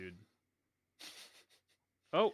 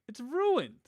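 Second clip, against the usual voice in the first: mock tragic wail; 11 semitones higher than usual. Mock despair over broken recording.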